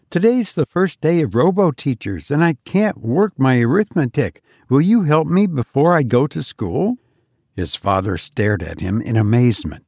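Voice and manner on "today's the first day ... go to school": put-on higher child's voice, pleading and excited; a boy begging for help on a big day; eager little boy. Johnny pleading with his mother, high and eager.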